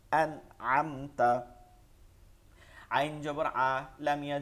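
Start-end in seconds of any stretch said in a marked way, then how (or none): 0.1-1.3 "আন আমতা" with clear n and m, no nasal hold; no ghunnah. Shown as a demonstration. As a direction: release the nasals of "আন আমতা" at once. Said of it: "পড়ে যাবেন দ্রুত". ("আন আমতা" গুন্না ছাড়া)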